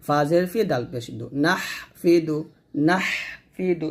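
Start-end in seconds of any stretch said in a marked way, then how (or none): 1.4-3.9 নাহফিদু with the H held long before ফি; pressed H. Shown as a demonstration. Teacher modelling the word for pupils, H pressed. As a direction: hold a throaty H in নাহ, then ফিদু. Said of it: "এরকমভাবে বলতে হবে".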